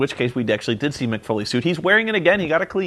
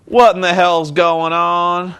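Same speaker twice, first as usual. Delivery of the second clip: bored voice; 3 semitones higher, 3 dB louder, slower than usual. Retold or imitated. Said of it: "in the most bored sounding voice".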